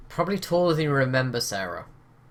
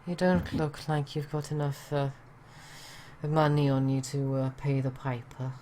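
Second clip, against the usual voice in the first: put-on Welsh accent. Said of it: "She goes".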